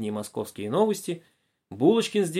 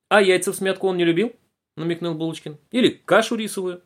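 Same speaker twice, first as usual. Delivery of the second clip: вкрадчивый вопрос; 6 semitones higher, 5 dB louder than usual. A narrator's reading. Булочкин выспрашивает бабушку.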